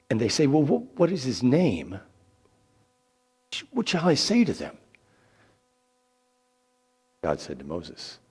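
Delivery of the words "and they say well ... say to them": worried. Acted. Moses frets over people's question.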